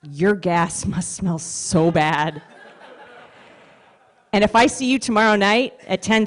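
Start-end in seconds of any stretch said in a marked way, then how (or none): 0.0-2.4 laughing inner thought. Retold or imitated. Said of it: "all I could think was".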